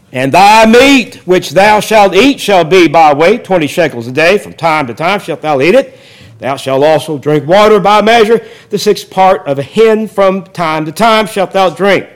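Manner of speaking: steady, formal reading of the verse; scripture reading. Acted. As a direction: read it out like a solemn text. Reads scripture aloud.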